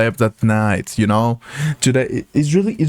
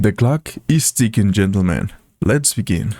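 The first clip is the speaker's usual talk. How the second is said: low, ominous villain announcement; 5 semitones lower than usual. Pretend. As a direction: intone it like a sinister game host. Mock villain line after timer.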